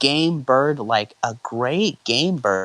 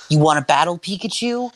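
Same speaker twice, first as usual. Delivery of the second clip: higher, rising invitation to battle; asking; 6 semitones higher than usual. Acted. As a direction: ask your Pokémon if it's up for it. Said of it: "Ash asked".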